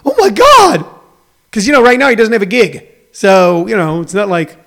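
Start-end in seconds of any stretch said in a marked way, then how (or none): 0.1-0.9 high, jolted mock fluster; a jump of panicked excitement; flustered gasp. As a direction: play the star-struck fan caught off guard. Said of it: "gotten flustered and went".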